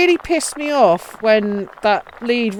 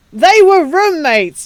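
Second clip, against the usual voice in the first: mock sarcastic cliché; 6 semitones higher, 6 dB louder, slower than usual. Mocking cliché excuse.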